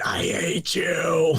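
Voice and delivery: mock anguished movie yell, slow; Hayden Christensen. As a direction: drag it out like an overacted, held-back shout. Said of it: "Hayden Christensen in Revenge of the Sith saying".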